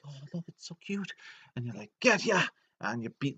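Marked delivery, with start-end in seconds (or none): 0.1-1.1 high, soft cooing over something cute. Retold or imitated. Short guys distracted by their little sheep, cooing. 2.0-2.4 high, loud pouncing shout; attacking yell. Retold or imitated. Player jumping the distracted short guys, attacking yell.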